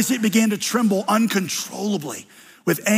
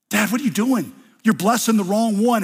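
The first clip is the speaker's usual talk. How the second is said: objecting son; 5 semitones higher, 3 dB louder than usual. Acted. Joseph objects to father.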